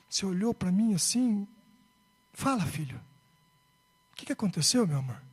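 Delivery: low, unhurried, tender questioning; gentle father. Retold or imitated. Father gently questions his son at bedtime.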